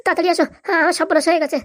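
mild panicked cry for help; distressed yelling. Acted. Son summoning his father to a disaster, distressed yelling. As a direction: cry out as if ruined. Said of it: "এরকম চেঁচাচ্ছিস কেন?".

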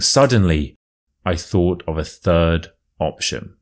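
storyteller reading a true tale; story narration. A narrator's reading. Reads the story aloud.

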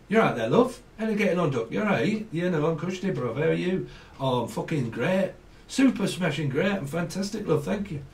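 friendly northern English banter; lilting, playful northern accent. Acted. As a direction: imitate northern men greeting each other. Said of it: "Actually, the men call men love".

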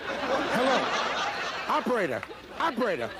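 playing disconnected on the phone, still laughing; laughing mock phone call. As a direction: cover the flubbed joke with a silly phone bit. Pretends the phone line dropped.

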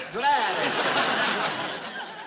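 hearty laughing welcome; 1 laughing greeting. Acted. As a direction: draw it out with a big laugh. Greeting client, then again, laughing.

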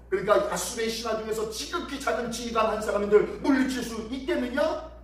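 lightly hammed-up scornful questions; mocking challenge. Envoy doubts Egypt will send chariots, mild mockery. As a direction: goad them toward a rising question. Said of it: "라고 하면서 조롱하고 있는 거예요".

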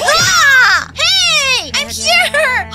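high shouting entrance; high and loud, announcing herself; loud barge-in. Real, not acted. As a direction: burst in with a yell. Barging in on them.

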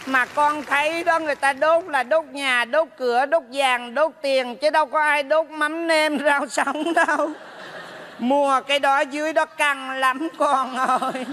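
chậm rãi, kiểu bà mẹ hỏi con; lightly put-on mother voice, drawn out; giả giọng mẹ. (giọng mẹ kéo dài)

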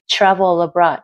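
"Travel abroad" as one word; "Travel abroad" said with no gap; linked sounds. Shown as a demonstration. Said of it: "có cái phần nối âm".

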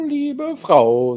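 "liebe Frau" viel höher und lauter, pathetisch ausgerufen; übertrieben gekränkt aufs Herz geklagt; theatralischer Vorwurf. Acted. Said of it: "sagte er vorwurfsvoll". (der General ruft seiner Frau pathetisch-vorwurfsvoll zu)

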